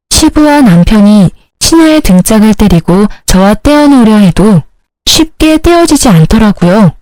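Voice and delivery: ordinary delivery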